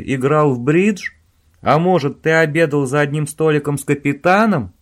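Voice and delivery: loud, scathing, sarcastic questions; angry tirade. Acted. Owen berating Robin over the phone, loud and scathing. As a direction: tear into him.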